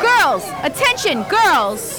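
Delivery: calling out to rally troops. Acted. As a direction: rouse the army of girls. Rallying the girl army.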